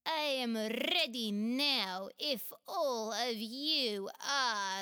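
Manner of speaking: firm and ready to go; determined. Acted. Chulur tells friends she is ready, slowly and determined. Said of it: "Chulur said determinedly".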